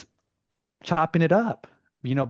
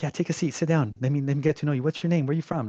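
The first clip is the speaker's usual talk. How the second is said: mock boss; 4 semitones higher, faster than usual. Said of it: "like it's his office".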